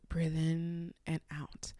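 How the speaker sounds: slow, soft breathing coaching; calming. Retold or imitated. Auntie talking panicked caller through breathing, calming. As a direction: gently guide the breath, drawn out. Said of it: "Her voice is so calming".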